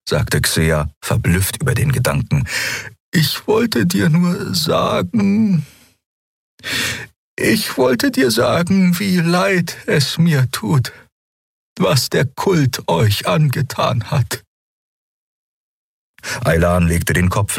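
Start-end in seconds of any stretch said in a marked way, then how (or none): 3.1-14.4 put-on much higher, slow, awed young voice; young healer Xea. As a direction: speak with reverent wonder, slowly. Xea apologises to Aylan. (hohe, langsame, ehrfürchtige Stimme)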